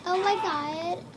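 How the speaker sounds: lightly voiced valley girl; a hint of a girly gush; girl voice trolling. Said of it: "girl voice trolling".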